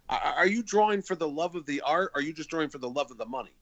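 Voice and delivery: mildly flustered mock interrogation. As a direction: imitate an exasperated artist cornering a pest.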